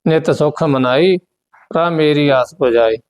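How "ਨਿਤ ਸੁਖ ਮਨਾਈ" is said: ਸੁਖ said with a tight, doubled ਖ; tight pronunciation. Shown as a demonstration. Teacher shows the class how to say ਸੁਖ tightly. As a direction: press down hard on the ਖ in ਸੁਖ. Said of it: "ਇਸ ਨੂੰ ਕੱਸ ਕੇ ਬੋਲਣਾ ਹੈ".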